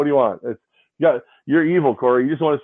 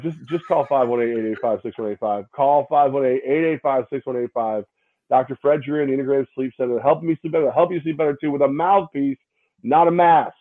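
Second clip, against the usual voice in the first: mock ad read. Mock ad read of phone number.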